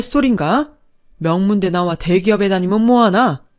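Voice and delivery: lightly voiced stern elder, rebuking; indignant father-in-law. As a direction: scold the son-in-law-to-be with firm indignation.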